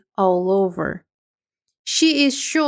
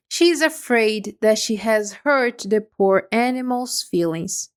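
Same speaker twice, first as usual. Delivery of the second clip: usual speaking voice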